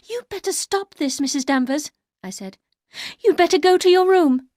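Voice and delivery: high and loud, commanding; wife sending the housekeeper away, high and loud; firm command. Acted. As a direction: order her out. Heroine commands.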